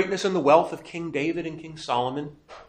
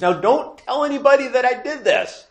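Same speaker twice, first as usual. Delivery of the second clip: higher, urgent hushed warning in a put-on voice; Jesus hushing; 10 semitones higher, 4 dB louder than usual. Jesus warns the healed not to tell anyone, urgent and higher. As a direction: lean in and caution them.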